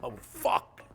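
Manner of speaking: high, breathy gasp of alarm; startled fear. Retold or imitated. Seeing the window at his back, in alarm. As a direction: react as if a gun is aimed at you. Realizing a sniper threat.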